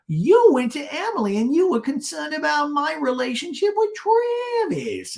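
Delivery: very high mock complaint; hammed-up whine, dragging out the last word; Gina. Gina accusing Shannon about Travis, mock indignant. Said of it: "And Gina goes".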